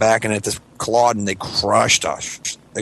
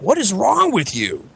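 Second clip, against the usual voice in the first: high, drawn-out bewildered question; mock disbelief, swooping high; appalled parents; 9 semitones higher, slower than usual. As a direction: imitate a shocked parent scolding. Parents react to his yelling.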